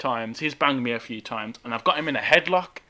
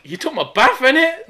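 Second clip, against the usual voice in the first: retold indignant shout; 10 semitones higher, 7 dB louder than usual. Indignant retort on the bus.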